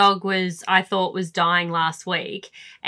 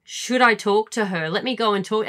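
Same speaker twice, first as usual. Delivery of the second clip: caring parent. Retold or imitated. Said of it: "they just want you to go".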